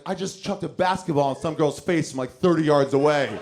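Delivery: cocky and thrilled, building up; proud brag. Retold or imitated. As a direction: boast about the sickest shot. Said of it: "But the other part of me is like".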